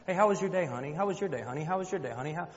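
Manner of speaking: high, singsong mimicry of a doting husband; mocking sweet-talk. Wife mimicking husband greeting the others, mocking. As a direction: parrot the greeting on a loop, mockingly.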